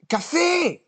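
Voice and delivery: way up high, a mocking squeak; mock squeaky voice. Teasing a chat viewer in a high squeak. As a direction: squeak the name like a cartoon.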